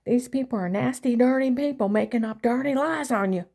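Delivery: lightly voiced indignant mother; imitating mom. Mother reassuring Karen on phone, lightly indignant. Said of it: "She said".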